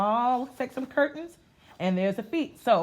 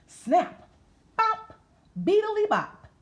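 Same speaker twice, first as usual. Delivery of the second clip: jazzy scat; 12 semitones higher, 5 dB louder, slower than usual. Acted. Reading jazz sounds from the book.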